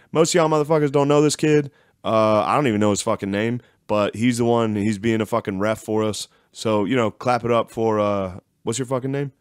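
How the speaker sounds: lightly voiced brash coach speech; imitated head coach. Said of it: "the head coach is like".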